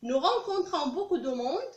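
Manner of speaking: slow, deliberate French present tense; slow model sentence. Shown as a demonstration. Teacher reading the present sentence for students, slow. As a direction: spell it out slowly for the class. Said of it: "teacher contrasts present and past".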